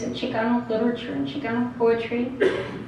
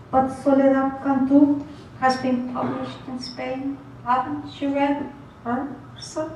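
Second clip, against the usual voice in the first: hopeful student Beto; 2 semitones higher, 5 dB quieter than usual. Acted. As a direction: ask hopefully as a young student. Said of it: "a student called Beto".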